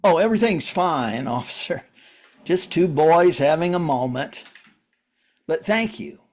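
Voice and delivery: smooth things over for the cop; falsely cheerful. Acted. Reassuring the police officer that all is fine, falsely cheerful.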